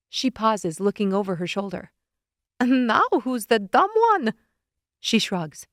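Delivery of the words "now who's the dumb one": a touch louder, impatient witch; snippy witch voice, lightly done; lightly voiced scolding witch. Witch scolding Leonid, mildly exasperated.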